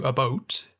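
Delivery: "a boat" with a rounded oh vowel; Canadian "about". Retold or imitated. Quoting an actor's slip, Canadian oh in "a boat". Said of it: "wouldn't naturally slip into".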